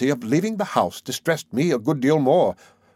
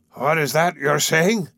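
slow, incredulous demand in character; a restrained narrated shout; emotional shout; 3 semitones higher, slower than usual. A narrator's reading. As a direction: demand it with understated, drawn-out astonishment. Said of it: "shouted with indescribable emotion".

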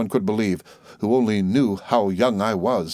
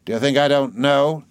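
accusing aunt; 6 semitones higher, 4 dB louder than usual. Acted.

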